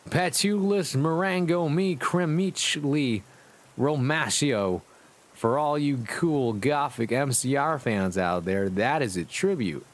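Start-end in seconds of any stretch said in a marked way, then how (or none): 0.1-4.8 higher, slow mock scream of a spell; hammed-up spell cast; mock screamed incantation. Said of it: "Then he screamed".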